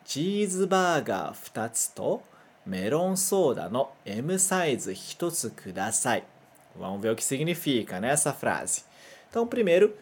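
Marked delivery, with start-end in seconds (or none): 0.1-6.2 careful Japanese read-aloud; Japanese sentence reading. Shown as a demonstration. Teacher modelling a fast-food order for students. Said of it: "Mais uma vez".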